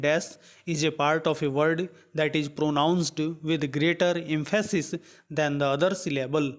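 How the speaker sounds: reads the English question out word by word, very slowly; slow question reading. Acted. Teacher reading the quiz question aloud to students, slow and deliberate. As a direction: dictate it slowly so students can follow.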